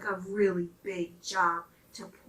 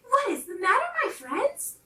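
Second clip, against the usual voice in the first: higher, gentle friendly question; kind little engine; 12 semitones higher, 6 dB louder than usual. Acted. Little blue engine greeting the stranded toys, kindly. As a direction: ask like a helpful little friend. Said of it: "she asked kindly".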